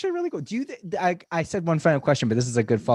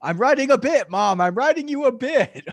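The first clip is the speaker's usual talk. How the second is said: put-on higher and louder whiny kid voice; mock teen son; 10 semitones higher, 8 dB louder than usual. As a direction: play a teenager defending himself to mom. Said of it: "He's like".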